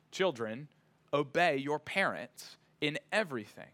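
measured, solemn Bible reading; scripture reading. Acted. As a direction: read the passage aloud to the congregation. Scripture reading before sermon.

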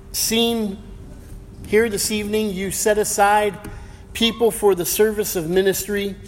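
hushed, earnest pulpit prayer; opening prayer before the sermon, reverent. Acted.

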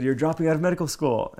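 high mock Cuban mom accent. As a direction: imitate a worried Cuban mother's accent. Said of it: "I use the Cuban accent".

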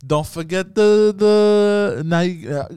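slow, high Brooklyn bodega guy; Brooklyn accent. Retold or imitated. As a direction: drawl it like a Brooklyn deli man. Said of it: "like a Brooklyn accent".

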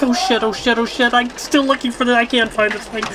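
high, frantic mock fretting; mock panicked secretary. Film fan playing the secretary searching for a contract, mock panic. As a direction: fret in a high imitated voice. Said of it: "She's just like".

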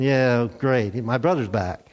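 low, dry sarcasm; a sour brother's low mock cheer; sarcastic. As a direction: mutter it with bitter irony. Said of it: "And I'm thinking".

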